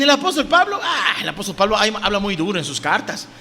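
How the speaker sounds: mock awe, falling away; mocking critics. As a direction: imitate scornful detractors with a laugh. Mimics Paul's critics to congregation.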